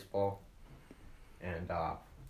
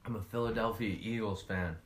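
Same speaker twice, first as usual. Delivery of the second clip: talking while chewing; mouth full. Real, not acted. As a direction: answer through a mouthful. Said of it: "we are eating during this".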